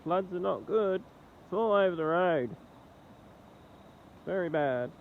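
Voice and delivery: blocked nose; nasally, phlegmy voice. Real, not acted. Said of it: "Sorry about my nasally voice".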